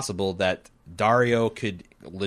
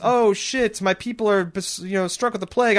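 mock panicked queen; 11 semitones higher, 5 dB louder than usual.

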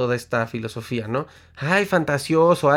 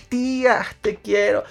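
gushing affection; 7 semitones higher than usual. Acted. Hugging the aunt at Christmas.

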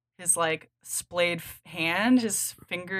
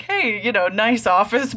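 Varvara voice; 4 semitones higher, 6 dB louder than usual. Retold or imitated. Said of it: "I like this Varvara you're playing".

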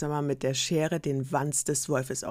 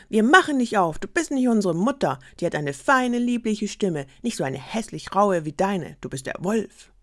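put-on loud, higher kids calling through the door; kids shouting; 4 semitones higher, 4 dB louder than usual. Kids yelling at the wolf through the door, loud and high. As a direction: shout them off together.

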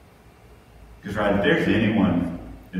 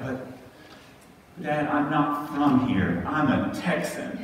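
put-on higher, slow childish whine; whiny eight-year-old; 7 semitones higher, slower than usual. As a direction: imitate his son's sulky protest. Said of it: "He's like".

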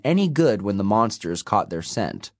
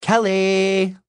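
high, loud triumphant cry; gleeful name reveal; 11 semitones higher, 4 dB louder than usual. A narrator's reading. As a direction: announce yourself in triumph. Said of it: "at the sound of my name".

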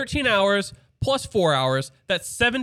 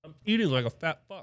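laughing; 5 dB quieter than usual. Real, not acted. Laughing echo.

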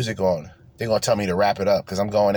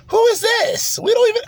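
mock disbelief; 4 dB louder than usual. Real, not acted. Mocking Nikki Haley.

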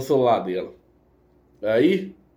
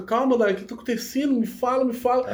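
soothing; 8 semitones higher than usual. Retold or imitated. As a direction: coax her gently, like calming a crying friend. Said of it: "e acalentando ela lá".

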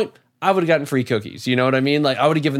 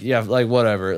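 imitating staff who don't care, lower pitch; indifferent; 4 semitones lower than usual. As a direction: shrug it off in a careless mock reply. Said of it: "they didn't give a fuck".

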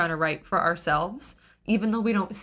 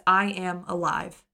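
quiet revelation. Retold or imitated. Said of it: "she writes".

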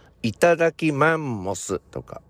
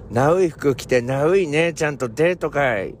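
retro playboy voice; 5 semitones higher than usual. Retold or imitated. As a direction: toss it off like a cheesy 80s guy. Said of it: "例えば".

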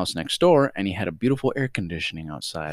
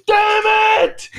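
very high, loud, angry yell; hammed-up outraged bellow from afar; imitated furious shout; 9 dB louder than usual. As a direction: holler it like an enraged grandfather. Imitates grandfather hearing the rocks.

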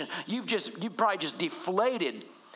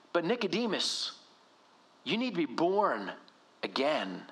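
Jesus addressing Nicodemus; 3 semitones higher than usual. Retold or imitated. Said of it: "He says".

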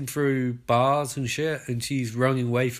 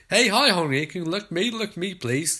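lightly voiced patronising nurse, coaxing; a hint of a nurse soothing a frightened patient; nursey voice; 4 semitones higher than usual. Nurse calming frightened Honey, mildly coaxing nurse voice. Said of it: "This is really nursey".

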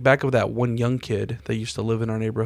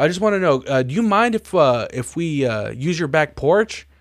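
higher, eager stoner-buddy voice; imitating Ricky; 4 semitones higher than usual. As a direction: play the harmless neighbor asking a favor. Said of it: "He's like".

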